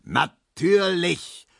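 slow, high, drawn-out Natürlich; sarcastic bellow. A narrator's reading. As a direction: stretch out Natürlich in sarcastic anger. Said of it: "brüllte Herr Markowski".

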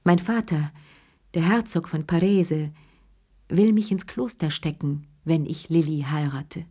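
plain reading voice

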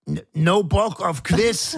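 high, drawn-out mock protest; tipsy refusal. Tipsy guest turns down the hostess's quiz, high mocking whine. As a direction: imitate a wine-loosened guest refusing the quiz. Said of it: "hattest da schon den einen oder anderen Wein".

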